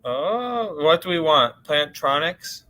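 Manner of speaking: mic check through the laptop microphone; testing on the built-in laptop mic. Real, not acted. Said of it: "Sounds like your laptop mic to me".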